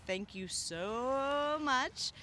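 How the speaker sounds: drawn-out, slow thank you; heartfelt thanks. Real, not acted. Hosts thanking viewers who watched this far, slow and heartfelt. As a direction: stretch each word out with real gratitude. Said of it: "thanking viewers".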